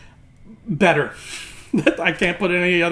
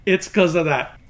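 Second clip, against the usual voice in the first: swollen mouth after the dentist; marbles in mouth. Real, not acted. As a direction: talk with a numb, swollen mouth. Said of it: "my mouth is a little bit swollen and not all there".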